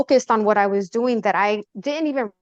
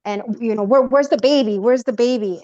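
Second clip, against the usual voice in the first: urgent retold yell, only slightly raised; 2 semitones higher, 4 dB louder than usual. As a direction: fire off frantic questions, half-yelled. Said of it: "yelling at his mom and his sister".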